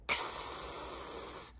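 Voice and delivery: "ks" as a k then a long hiss; voiceless "ksssss", drawn out; stretched-out ks. Shown as a demonstration. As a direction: click the k and hold the s in "ks". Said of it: "Listen again".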